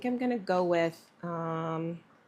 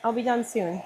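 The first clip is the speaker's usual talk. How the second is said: pet talk; 4 semitones higher, faster than usual. Real, not acted. To her annoyed cat during the heat gun, tender coo.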